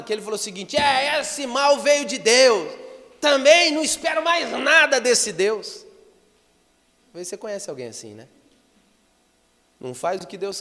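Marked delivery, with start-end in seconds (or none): 0.8-5.8 loud, high, dragged-out ranting; deranged, furious king. Retold or imitated. Preacher acting the disturbed king turning on God, raging. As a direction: rant it slowly like a king gone mad. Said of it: "O rei tava tão perturbado, endemoniado".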